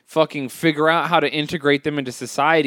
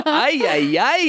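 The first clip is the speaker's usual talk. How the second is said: put-on Mexican accent; 8 semitones higher, slower than usual. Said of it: "don't do that".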